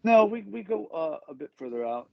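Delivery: talking while blowing his nose; words squeezed out mid nose-blow. Real, not acted. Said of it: "excuse me, blowing my nose".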